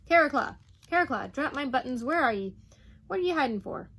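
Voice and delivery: loud, high-pitched bellowing Duke; terrible voice. A narrator's reading. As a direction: bellow for a man out of sight. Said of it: "He turned and made his terrible voice".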